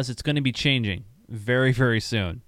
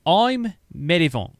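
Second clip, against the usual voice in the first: put-on New Zealand accent; 5 semitones higher, 4 dB louder than usual. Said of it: "I dare you to say this in a New Zealand accent".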